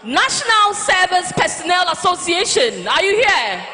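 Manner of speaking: hype call-out. Real, not acted. MC calling out to crowd.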